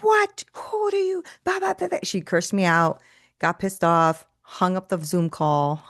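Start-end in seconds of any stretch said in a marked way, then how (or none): 0.0-2.0 high, indignant mock outrage; indignant outburst. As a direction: toss it back like she's offended. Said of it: "And she's like".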